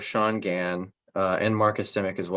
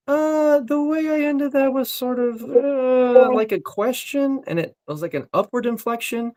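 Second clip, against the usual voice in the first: much higher, eager voice, quick at the end; a raised, chatty inner voice picking apart a line; high excited self-talk; 4 dB louder than usual. Retold or imitated. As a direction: actor quoting his own thoughts in a raised, eager voice. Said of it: "So I'm like".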